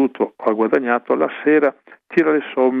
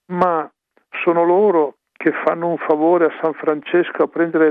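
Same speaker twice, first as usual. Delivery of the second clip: higher, pleading outcry; impassioned cry; 4 semitones higher than usual. Retold or imitated. Friar crying out against the young who shun the habit. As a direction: raise the voice in dismay. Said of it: "guardando lontano gridò".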